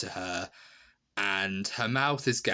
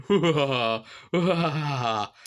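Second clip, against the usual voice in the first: loud, higher mock monster whoops; campy monster "hoo-ha"; 6 semitones higher, 6 dB louder, much slower than usual. Krampus with claws out menacing his victim, campy whooping. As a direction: whoop like a hammy villain. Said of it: "he's, like, going".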